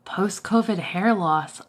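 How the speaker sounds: whispered, slow; slow, voiceless whisper. Real, not acted. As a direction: breathe it out slowly, no voice. Reading out a viewer comment.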